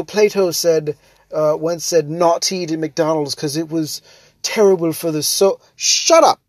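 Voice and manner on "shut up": higher, louder shut up; exasperated. Real, not acted. Fed up with food snobs, loud exasperated outburst. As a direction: snap it out, fed up.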